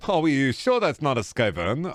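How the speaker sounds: a lightly put-on silly reading voice; funny voice. Streamer reading a viewer comment in a mock voice. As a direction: read the chat comment in a goofy voice. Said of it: "reading that in the appropriate voice".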